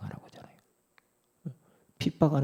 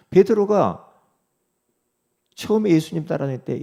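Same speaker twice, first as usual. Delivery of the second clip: louder, driving sermon voice; full-force preaching; 7 semitones higher, 7 dB louder than usual. Acted. Pastor pressing the congregation, full-force preaching. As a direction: preach it out to the whole hall.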